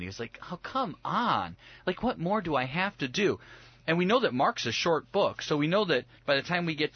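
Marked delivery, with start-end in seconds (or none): 0.5-3.4 exasperated sigh. Acted. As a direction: plead as if at wits' end. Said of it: "That he sighed deeply in that moment".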